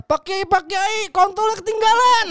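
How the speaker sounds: high, loud call after someone; boy calling after the kiai. Acted. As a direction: shout after him down the road. Terus dia teriak.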